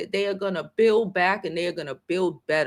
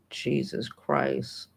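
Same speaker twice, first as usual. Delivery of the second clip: emotional; 5 semitones lower, 6 dB quieter, much slower than usual. Real, not acted. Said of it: "I get emotional".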